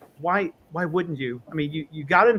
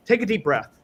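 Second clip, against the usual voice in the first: coaching patient; 4 semitones higher than usual. Retold or imitated. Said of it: "I tell a lot of my patients".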